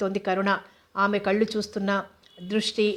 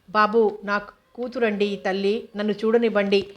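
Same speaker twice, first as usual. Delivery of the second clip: shouting. Acted. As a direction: lightly raise the voice pleading to see his daughter. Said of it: "అరుస్తున్నాడు రంగారావు". (కూతుర్ని చూడనివ్వమని కొద్దిగా గట్టిగా అరవడం)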